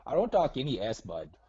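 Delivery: lightly hammed-up Midwestern nice-guy voice; put-on Minnesota accent. Prank caller doing Minnesota nice to host, mild accent. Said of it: "Why are you talking like that?".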